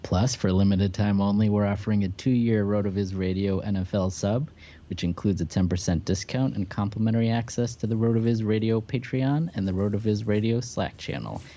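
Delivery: upbeat promo read, smooth and steady; hard sell ad. Acted. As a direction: sell the offer like a radio spot. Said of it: "sponsor promo read over music".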